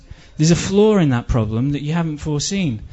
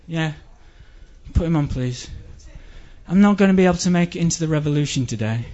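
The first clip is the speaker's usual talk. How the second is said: calling in sick. Acted. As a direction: mildly fake being ill on the phone. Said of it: "this is what would happen".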